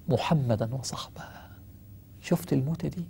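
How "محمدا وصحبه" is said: whisper. Retold or imitated. Dying Bilal speaks of meeting loved ones.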